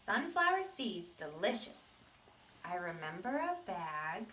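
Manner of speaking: a hint of the seed retelling his past; lightly voiced seed. Teacher reading the seed's sad past to the class. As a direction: tell it as the seed, half remembering.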